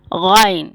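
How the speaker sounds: "غائن" with a deep gargled gh from the throat; heavy throaty opening on "غائن", falling at the end; heavy letter. Shown as a demonstration. Teacher demonstrating a heavy letter, throaty "غائن". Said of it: "بھاری لفظ ہے".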